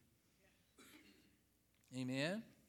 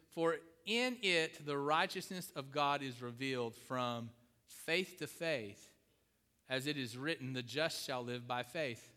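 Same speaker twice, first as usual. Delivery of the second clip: slow, measured reading of scripture; slower than usual. Acted. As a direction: read the verse solemnly to the congregation.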